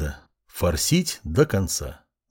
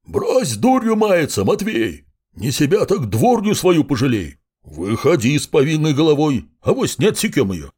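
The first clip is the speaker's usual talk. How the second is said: yelling much higher, hoarse and angry; 5 semitones higher than usual. A narrator's reading. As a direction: bellow it hoarsely at the bandit. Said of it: "хрипло заорал".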